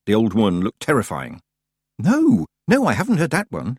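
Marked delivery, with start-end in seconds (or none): 2.0-3.8 high, alarmed first word, then settling; startled girl recoiling; startled gasp. A narrator's reading. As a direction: gasp it out in fright. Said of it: "she gasped".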